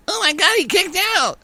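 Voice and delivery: high excited Joey Styles announcer call; wrestling commentator. Acted. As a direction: shriek it like a ringside announcer. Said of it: "Was that your Joey Styles impression?".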